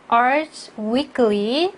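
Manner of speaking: "Arts" and "Weekly" each slow and distinct; each word stressed. Shown as a demonstration. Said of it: "또박또박 읽어주면서 또 강조해 주시고요". ("Arts Weekly"를 또박또박 강조해서)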